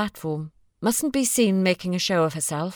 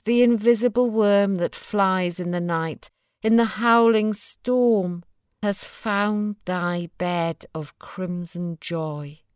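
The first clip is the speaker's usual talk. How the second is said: poem reading; slower than usual. A narrator's reading. Reads the Blake poem.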